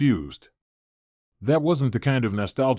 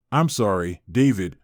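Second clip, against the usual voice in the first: flat monotone, a touch lower; deadpan robotic monotone delivery; 3 semitones lower than usual. Acted. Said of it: "in a monotone voice".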